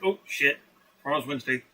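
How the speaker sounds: a startled "oh, shit" moment; sudden realization. Retold or imitated. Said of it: "I was like".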